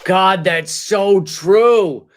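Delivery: slow, loud mock agreement; feigned awe, slow and heavy; sarcastic agreement. Real, not acted. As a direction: drag it out, dripping with sarcasm.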